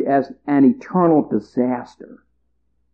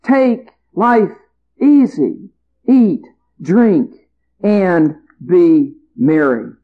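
higher, self-satisfied farmer talking to himself; a higher, pleased-with-himself farmer planning his ease; smug rich farmer; 5 semitones higher than usual. Acted. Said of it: "He says".

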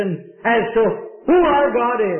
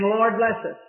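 a lightly mocked string of vague prayers; the preacher mimics the congregation's vague prayers; rote generic prayer. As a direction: rattle off the familiar requests. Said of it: "It sounds like us in our modern day praying".

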